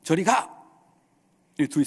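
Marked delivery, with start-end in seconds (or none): 0.0-0.5 raised, sharp mock dismissal; contemptuous dismissal. One quarreler sending the other away, acted contempt. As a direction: imitate shooing someone off with contempt. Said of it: "눈빛은 정말 경멸한 눈빛으로".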